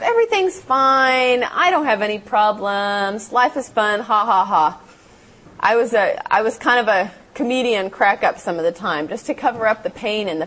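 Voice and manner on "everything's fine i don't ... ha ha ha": fake cheer. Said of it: "put on this veneer".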